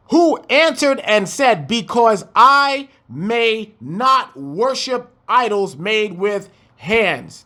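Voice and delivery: slow, measured Bible reading; scripture reading. Acted. Preacher reads the verse to his congregation, slow and measured. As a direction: read the verse out with weight.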